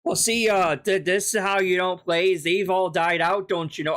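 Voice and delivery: a light Canadian lilt, mocking him; half-hearted Canadian accent impression. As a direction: play him as a cheery Canadian, lightly done. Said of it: "I'm not sure why I went for Canadian there".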